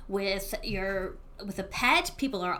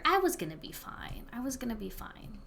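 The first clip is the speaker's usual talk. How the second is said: gentle reassurance; 6 dB quieter than usual. Acted. Reassuring tearful friend.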